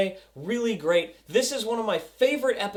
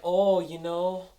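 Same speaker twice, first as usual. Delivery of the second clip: taunting; 6 semitones lower, 7 dB quieter than usual. Retold or imitated. Villain needling a father about his son, softly taunting. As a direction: sink lower and quieter as you needle him. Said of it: "he's taunting him".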